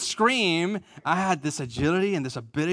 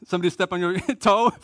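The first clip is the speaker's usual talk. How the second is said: teasing laugh; faster than usual. Retold or imitated. Teasing mom on phone call.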